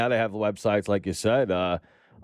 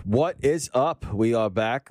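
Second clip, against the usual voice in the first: excited; 3 semitones higher, slower than usual. Real, not acted. Podcast host intro.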